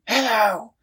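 a crowd of balloons calls out together; chorus of balloons. A narrator's reading. All the balloons greet at once.

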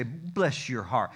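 "Bless your heart" drawn out slowly, a touch of a Southern lilt; sugary Southern put-down. Retold or imitated. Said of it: "Here's what they mean when they say".

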